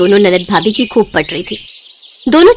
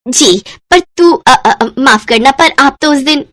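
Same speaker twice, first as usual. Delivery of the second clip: flustered stammer; 4 semitones higher, slower than usual. Acted. Babita flustered before inspector.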